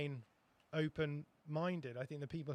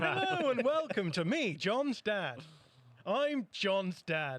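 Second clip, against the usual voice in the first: slow, raised northern dad voice; Lancashire accent; 6 semitones higher, 6 dB louder, much slower than usual. Retold or imitated. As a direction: drag out a northern dad impression. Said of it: "Lancashire accent".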